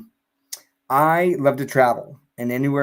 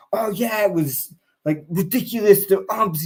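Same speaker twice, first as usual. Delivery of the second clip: mock sports fan; 7 semitones higher than usual. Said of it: "I was like".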